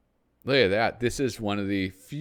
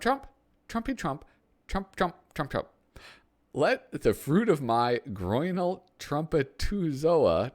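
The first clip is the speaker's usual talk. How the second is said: high, brash tycoon voice, pitched way up; pompous boss bragging about his tower; a hammed-up Trump, reaching high; Donald Trump; 5 semitones higher than usual. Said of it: "I'm not gonna try to do a Donald Trump impression".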